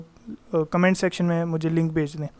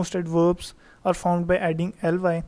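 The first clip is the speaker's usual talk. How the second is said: slow definition read; much slower than usual. Shown as a demonstration. Teacher rereads rule slowly.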